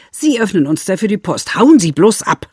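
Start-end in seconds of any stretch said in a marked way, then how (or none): 1.6-2.5 nasty parting shot. Acted. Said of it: "gleich fällt ein böser Satz".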